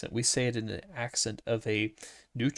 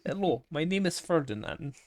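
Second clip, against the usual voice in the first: higher-pitched mock Russian accent; 4 semitones higher than usual. Co-host having a go at Ferdinand, mock Russian accent. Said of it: "Ferdinand in a Russian accent".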